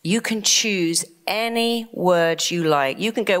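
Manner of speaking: usual speaking voice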